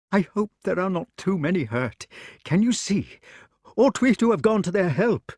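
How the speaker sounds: high anxious king; worried old king. Acted. Arthur worrying.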